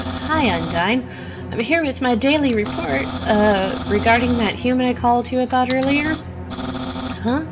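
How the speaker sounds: lightly voiced, hesitant game character; nervous underling reporting. Underling reporting to Undyne about the human, lightly voiced and nervous. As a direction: stammer through an awkward report to the boss.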